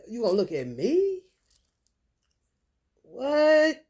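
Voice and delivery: loud, sharp "What?"; loud challenge. Real, not acted. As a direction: throw it back at him loud. Challenging someone staring.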